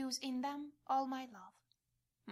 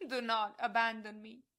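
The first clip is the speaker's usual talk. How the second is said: loud plea; 5 dB louder than usual. Acted. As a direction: do not abandon me cried loud and raised. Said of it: "cry out loudly to all hearts".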